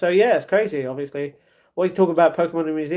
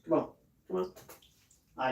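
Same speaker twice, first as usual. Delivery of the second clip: ordinary talk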